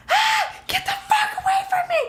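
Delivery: very high shrieking scream; hysterical scream. Retold or imitated. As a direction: shriek it like a woman in danger. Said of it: "woman in danger screaming".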